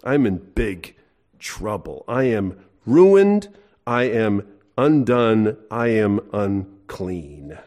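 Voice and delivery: slow, heavy Isaiah confessing his ruin; Isaiah undone. Retold or imitated. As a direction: drag out each I am line in dismay. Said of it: "He says".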